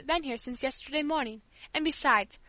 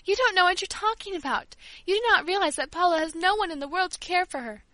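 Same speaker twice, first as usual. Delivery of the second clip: tearful; 3 semitones higher, 4 dB louder than usual. Acted. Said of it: "as I burst into tears".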